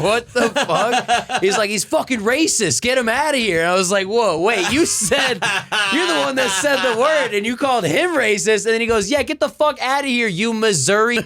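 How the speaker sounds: high-pitched, incredulous quarrel retold; worked-up retelling. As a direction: act out the absurd argument, voice jumping way up. Retelling argument over crowd laughter.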